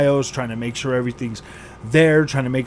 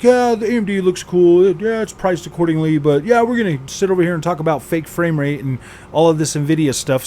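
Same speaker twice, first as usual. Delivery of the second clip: mocking reviewers; 3 semitones higher, 4 dB louder than usual.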